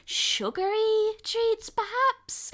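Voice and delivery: Frankie's voice. Acted. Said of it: "just be like".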